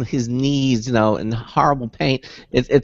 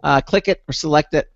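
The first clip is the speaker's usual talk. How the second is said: brisk-to-measured host's station read; radio show announcer; 4 semitones higher than usual. Real, not acted. Host telling listeners how to join the show, announcer delivery. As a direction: deliver the show's contact details like an announcer.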